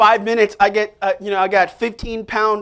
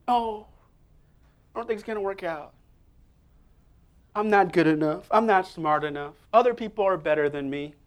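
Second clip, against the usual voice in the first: depressed Christian; 4 dB quieter than usual. Retold or imitated. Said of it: "That's a depressed Christian".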